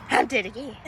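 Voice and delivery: hammed-up dying line, dropping back down; movie death. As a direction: expire again in mock drama. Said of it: "Okay, movie death".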